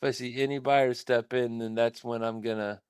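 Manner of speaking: glitchy robotic audio; choppy, digitized stream sound. Real, not acted. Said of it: "you sound like a robot".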